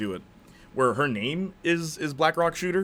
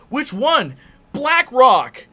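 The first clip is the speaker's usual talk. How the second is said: high-pitched yelled exchange; hammed-up shouting; 13 semitones higher, 12 dB louder, much slower than usual. Characters sorting out which Rock she means, hammed-up yelling. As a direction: yell question and answer in mock urgency.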